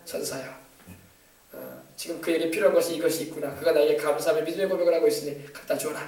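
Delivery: lightly voiced, soft divine command; God speaking to angels. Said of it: "하나님 천사들에게 명하신다니까요". (천사에게 명하는 하나님 목소리, 부드럽게)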